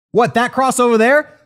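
hammed-up disbelief at being shot; mock shock. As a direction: jolt up as if suddenly shot. Acting Rasputin shot suddenly.

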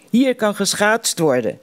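called out. A narrator's reading. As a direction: announce it gladly to the others. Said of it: "riep ik".

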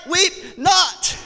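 high, ringing call; Savior's command. Acted. The Savior tells the grieving, ringing out. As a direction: proclaim it like the Savior. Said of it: "hear the blessed Savior say".

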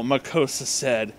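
ordinary delivery, nothing marked

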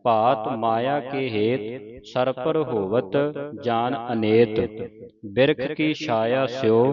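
measured phrase-by-phrase recital; sacred verse read out in deliberate phrases; scripture recitation. Shown as a demonstration. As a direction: recite the verse for students to follow.

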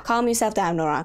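quick, firm order to yourself; brisk self-command. Real, not acted. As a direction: tell yourself to calm down, briskly. Tells herself to calm down.

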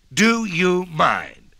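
very slow, drawn-out hee-haw bray; braying donkey. A narrator's reading. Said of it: "said the donkey with a he and a haw".

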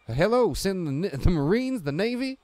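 high, loud panicked phone call; panicked Ozzy. Retold or imitated. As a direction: frantically shout for every rescue. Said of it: "what Ozzy says in Leprechaun One".

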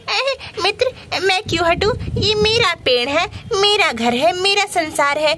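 a lightly voiced stubborn bird. Bird argues over its tree.

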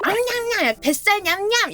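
put-on high, playful baby talk; teasing dog owner. Imitating an owner teasing a puppy, high munching baby talk. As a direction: pretend to nibble the pet, high-pitched. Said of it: "주인이 강아지".

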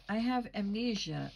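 a touch of shrill insistence; shrill protest. Acted. Lily insisting to the landlady, a hint of shrillness. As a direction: protest as if it were obvious, mildly shrill. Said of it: "Lily shrilled".

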